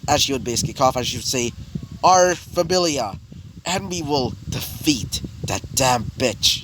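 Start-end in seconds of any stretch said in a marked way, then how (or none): 2.0-6.6 slow, measured mock-angry declaration; mildly angry, drawing the words out slowly; retold angry tone. Loki rallying the familia against their enemy, mildly angry. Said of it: "in a pretty angry tone".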